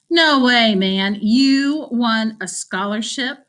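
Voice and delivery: loud, slow, scornful no way; mock the idea out loud; scoffing disbelief. Robbie scoffs.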